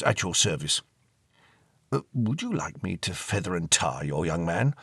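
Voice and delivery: put-on courtly old ghost comforting the girl; old gentleman ghost. Ghost voice held in story.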